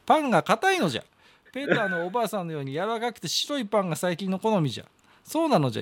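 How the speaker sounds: lightly voiced old man reading a letter; a hint of an old grandpa holding court; creaky wise old man. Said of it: "中の人格が出てまして".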